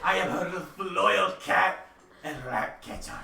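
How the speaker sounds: French cat. Acted. Cat answers the druid's accusation, French accent. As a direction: declare it proudly in a French accent. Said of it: "You gave me a French cat".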